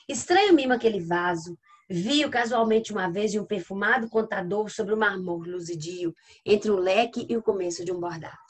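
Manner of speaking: measured sonnet reading; poem recitation. Acted. Teacher reading a sonnet to the class, measured recitation. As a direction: recite the verse in flowing phrases.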